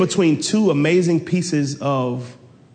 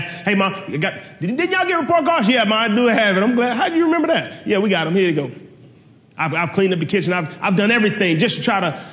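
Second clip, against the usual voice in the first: lightly voiced eager kid, higher; sweet-talking mom, a touch higher; 4 semitones higher than usual.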